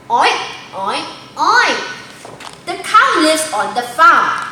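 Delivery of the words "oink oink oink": pig oinks. Shown as a demonstration. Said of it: "Can you say it together?".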